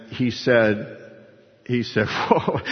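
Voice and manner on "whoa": retold shocked whoa. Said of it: "he was shocked".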